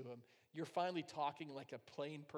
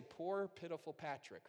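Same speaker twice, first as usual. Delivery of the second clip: mock pity. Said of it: "I wanted God to say".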